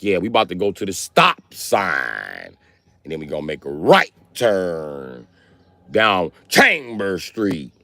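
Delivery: slow, overemphatic big words; drawn-out impression of a rapper. Imitating a rapper in Fast and Furious, slow overemphatic. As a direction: stretch every word like the rapper. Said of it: "He be like".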